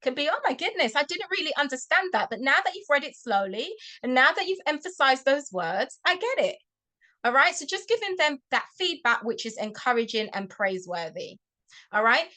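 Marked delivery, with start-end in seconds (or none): 0.3-6.6 praising excitement. Shown as a demonstration. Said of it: "The reward can be praise".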